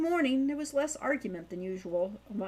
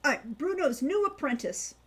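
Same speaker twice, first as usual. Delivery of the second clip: proud; 4 semitones higher than usual. Acted. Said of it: "she said proudly".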